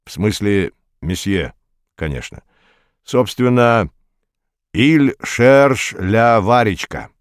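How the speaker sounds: put-on slow, clumsy French accent; terrible French accent. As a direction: mangle it like bad French. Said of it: "сказал Дауге с ужасным акцентом".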